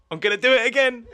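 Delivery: high, loud, through laughter; helpless laughing delivery. Real, not acted. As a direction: barely get it out for laughing. Cracks up before repeating his childhood line.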